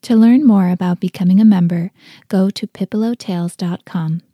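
clear, forceful podcast promo; promo read. Real, not acted. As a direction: step out of the tale and pitch the website. Sponsor message break in story.

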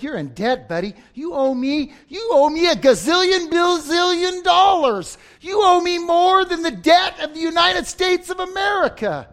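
master demands his money, loud and rising; a hammed-up creditor shouting at his servant; angry master. Master to debtor, mock-furious loud demand. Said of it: "and his master said".

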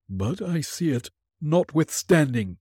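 a hint of a hollow ghost. Ghost voice answering Scrooge.

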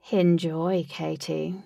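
low, slow coaxing voice; lightly deepened host; deep voice. Acted. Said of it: "said Lutz in a deep voice".

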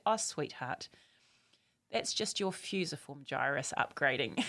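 soft, low mock-sweet reassurance; sweet soothing voice. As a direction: soothe the daughter with exaggerated sweetness, softly. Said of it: "And I said".

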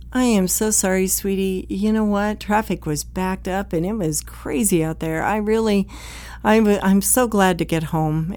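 gentle, apologetic homecoming. Retold or imitated. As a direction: ease the tension, sorry and kind. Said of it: "take that step back and be gentle".

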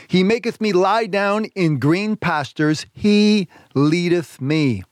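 slow, weighty reading with He leaning on; slow scripture reading. Acted. Preacher reading the psalm slowly to his listeners. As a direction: draw out each word of the verse.

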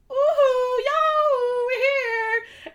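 high, drawn-out mock holler; retold holler. Podcaster acting out the waving gang, high drawn-out holler. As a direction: call out loudly like rowdy revellers. Retelling rowdy group waving, calling out.

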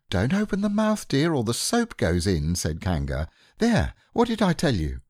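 bustling while scrubbing; brisk mother. Acted. Kanga voiced in story.

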